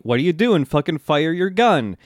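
lightly shouted order; retold shouting. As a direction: imitate an exasperated shout, half-strength. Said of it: "shouting at Misa".

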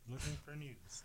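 very soft, away from the mic; quiet. Real, not acted. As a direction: mumble it under your breath. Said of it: "You keep getting quiet on us".

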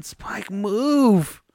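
put-on high, loud little-girl command; a tiny kid bossing a big dog; toddler ordering the dog. Father imitating his toddler ordering the dog off, high and loud. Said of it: "just going".

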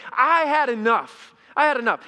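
loud, high outburst at the end of patience; snap, fed up and loud; snapping. Acted. Moses telling God he has had enough, snapping. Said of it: "he just snaps".

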